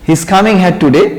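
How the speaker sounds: He is coming here today, slow and even; slow model sentence. Shown as a demonstration. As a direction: read it out for students to copy. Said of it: "অর্থ হচ্ছে".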